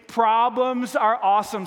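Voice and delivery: "Problems are awesome" said slowly, each word stressed; emphatic call-and-response. Shown as a demonstration. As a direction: lead the crowd through "Problems are awesome", slowly and firmly. Leads congregation in repeating the slogan.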